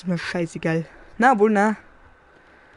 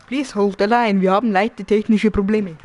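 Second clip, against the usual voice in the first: louder mock hotline announcement; hotline announcer; 7 dB louder than usual. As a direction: play the waiting-line recording.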